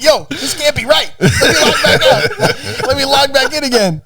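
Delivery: high, drawn-out imitation through laughter; laughing mock disbelief. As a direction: crack up while mimicking a baffled friend. Imitating friend's panic, cracking up laughing.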